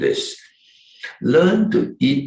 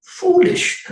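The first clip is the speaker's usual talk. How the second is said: scornful; 5 dB louder than usual. Real, not acted. Mocking those who discard fish.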